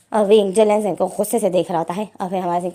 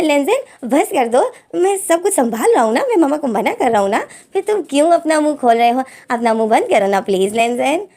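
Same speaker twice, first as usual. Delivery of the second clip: exasperated hushing; 4 semitones higher than usual. Acted. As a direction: beg him to stop talking. Wing hushes brother urgently.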